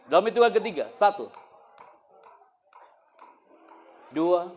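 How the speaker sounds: loud, high countdown; teacher counting down before the room falls silent. Real, not acted. Counting to quiet the crowd.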